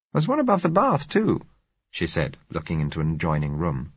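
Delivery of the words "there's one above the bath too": put-on higher, lively young woman teasing the narrator; Josella's voice. A narrator's reading. Josella teasing the narrator about being decadent, lively higher voice. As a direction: play the girl being playfully defiant, a touch higher.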